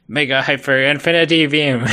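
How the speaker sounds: loud, high, hyped-up shout; enthusiastic attack call. Retold or imitated. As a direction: yell the move name like an anime hero. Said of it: "he's like".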